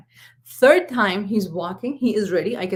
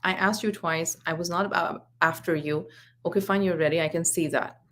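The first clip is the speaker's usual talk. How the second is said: measured, lower-key retelling of a parent's reply; very calm; 3 semitones lower, 3 dB quieter than usual. Retold or imitated. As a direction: keep it even and restrained. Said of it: "with a very calm tone".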